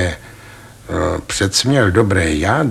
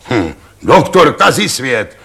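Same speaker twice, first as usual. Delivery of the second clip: mocking scoff; 4 semitones higher, 3 dB louder than usual. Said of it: "křičel řemenář".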